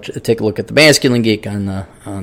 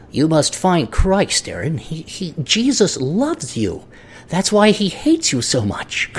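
mock preacher; 3 semitones higher, 5 dB quieter, slower than usual. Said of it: "there's a God, and he's a dick".

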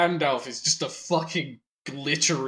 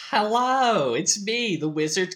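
theatrical wizard greeting, starting high; Gandalf; 5 semitones higher than usual. Pretend. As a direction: announce yourself as a flamboyant wizard. Acts the film's camp Gandalf.

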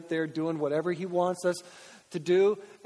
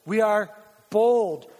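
"We are bold" repeated with "bold" pushed louder; louder emphatic; 6 dB louder, slower than usual. Shown as a demonstration. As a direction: hit "bold" hard the second time. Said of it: "core value proclaimed".

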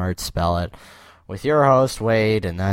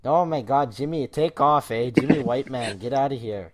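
higher-pitched hoser telling off a pet; playfully exasperated Canadian hoser; mock scolding; 5 semitones higher, 9 dB louder than usual. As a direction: scold a naughty pet, half-hearted. Scolding imaginary polar bear.

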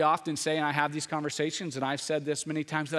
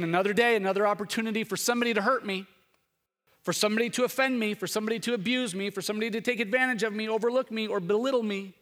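fast mock self-pity, rattled off; quick imitation of a gloomy complainer; 5 semitones higher, faster than usual. Mimics a gloomy complainer's morning.

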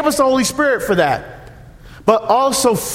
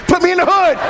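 fast chuckling aside with a laugh; tossing off the joke through a laugh; amused at being sent to the inner city; 7 semitones higher, faster than usual. Real, not acted. Joking about his parish assignment.

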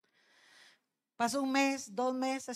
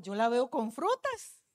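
slow, stretched FRUTAS with a rising end; retold insistence, slow and drawn-out on "frutas"; insistent mother; 2 semitones lower, slower than usual. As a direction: draw out "frutas", lifting it at the end. Mother insists to doubting daughter.

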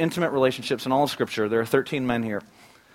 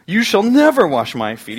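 loud, higher and slow, every word insisted; emphatic protest; 8 semitones higher, 8 dB louder than usual. Retold or imitated. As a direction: Peter digging in his heels. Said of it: "He's so emphatic".

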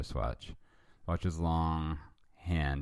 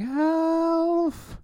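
high yelled name; shouting; 7 dB louder than usual. Acted. Wife yelling for Alf from bed, loud. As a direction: call out sharply across the house. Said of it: "jumped off the bed shouting".

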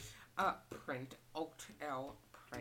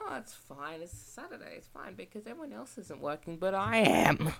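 kind lady voice; 5 semitones higher, 11 dB louder than usual. Retold or imitated. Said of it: "she was like".

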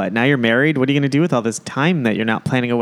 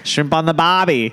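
lightly put-on Aussie accent, higher; failed Australian accent; 4 semitones higher than usual. Host teasing Australian guests with a catchphrase, mock Australian accent. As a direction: have a playful, bad go at an Australian accent. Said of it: "That did not sound Australian at all".

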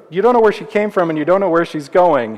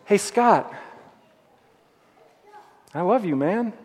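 tender voice of Jesus; 3 semitones lower, 3 dB quieter than usual. Acted. Jesus tenderly telling the preacher he is loved, soft and hushed. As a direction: speak each word as a gentle gift of love.

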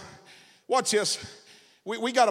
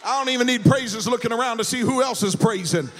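full-force preaching; 3 semitones higher than usual. Acted. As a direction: rouse the church to praise. Preacher rousing the congregation to praise.

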